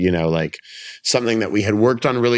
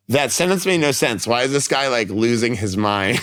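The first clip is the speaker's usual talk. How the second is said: mock bewilderment, pitched up at first; lightly imitated puzzled crowd; baffled onlookers; 3 semitones higher than usual. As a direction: voice a confused audience lightly. Retold puzzled audience reaction.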